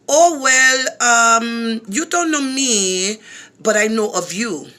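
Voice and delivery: mock smooth caller voice; imitating the brother. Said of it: "I'm gonna try to talk like him".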